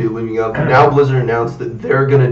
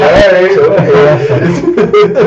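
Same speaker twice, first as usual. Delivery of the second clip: mock reluctant agreement; 6 semitones higher, 5 dB louder, much slower than usual. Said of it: "And I'd be like".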